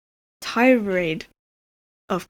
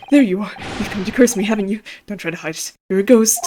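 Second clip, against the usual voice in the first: loud accusing cry of a ghost; frightened prisoner shouting at a ghost; 5 dB louder, faster than usual. Acted. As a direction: call him out loudly as a ghost.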